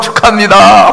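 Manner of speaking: upbeat, celebratory tone. Congratulating someone at a celebration feast: upbeat, lively voice. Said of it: "목소리가 업돼가지고".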